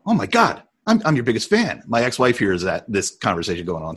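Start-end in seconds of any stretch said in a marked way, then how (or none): 0.0-1.8 high-pitched, stammering fan gush; starstruck, voice jumping up. Retold or imitated. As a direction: imitate yourself meeting your idol. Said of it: "And I go".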